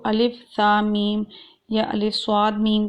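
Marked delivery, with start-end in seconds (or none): 0.0-1.2 الف، سا، میم spelled slowly letter by letter; slow spelling of the letters. Shown as a demonstration. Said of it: "اگر ہم اس کو".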